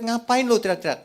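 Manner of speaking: loud, high scolding question; God rebuking worshippers. Acted. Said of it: "Tuhan di surga lihat".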